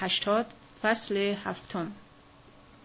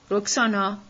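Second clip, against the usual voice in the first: calling out; 4 dB louder than usual. Acted. Calling Roxana after clapping.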